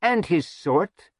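dark. A narrator's reading. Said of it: "Lirian said darkly".

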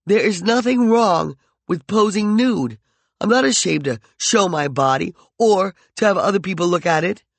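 angry taunting. Acted. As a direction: wound her with every word.

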